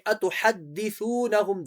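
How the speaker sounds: أَتُحَدِّثُونَهُمْ with doubled hard d and soft th; firm dal, soft tha. Shown as a demonstration. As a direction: press the d and soften the th in أَتُحَدِّثُونَهُمْ. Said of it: "دال کو شدت کے ساتھ، سا کو نرم". (أَتُحَدِّثُونَهُمْ میں دال شدت سے، ثا نرم)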